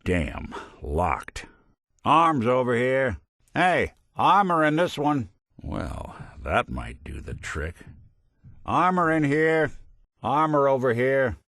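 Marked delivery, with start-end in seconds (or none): 2.0-5.3 raised, higher call. Acted. Calling out found gear. 8.6-11.4 higher-pitched call. Acted. Calling out found gear.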